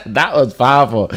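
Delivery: said through a laugh; laughing praise. Real, not acted. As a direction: chuckle while repeating the praise.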